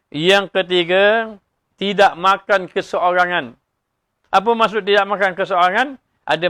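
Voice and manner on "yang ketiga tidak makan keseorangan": "yang ketiga" stretched slowly, syllable by syllable; preacher slowly repeats his third point to the congregation, drawn out; slow emphatic point. Shown as a demonstration. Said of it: "repeating point slowly".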